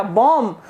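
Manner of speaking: "बॉम्ब" said as bom; silent final B. Shown as a demonstration. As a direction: end "बॉम्ब" on M, no B. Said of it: "इसका कोई sound नहीं है".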